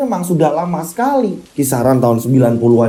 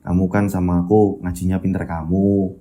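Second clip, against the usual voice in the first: suara Bayu lirih; 10 semitones lower than usual. Acted. Bayu's voice in the story. (suara anak lirih dan pelan, seperti berpamitan)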